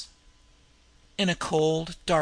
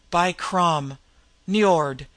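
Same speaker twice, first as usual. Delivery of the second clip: gasped; 5 dB louder, much slower than usual. Acted. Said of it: "gasped the Cimmerian".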